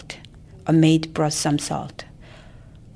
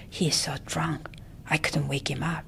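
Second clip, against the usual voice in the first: hushed whisper, much softer; 9 dB quieter than usual. Acted. Auntie reports the drunk son to mother, whispering. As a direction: whisper the news so no one else hears. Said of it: "came back and whispered".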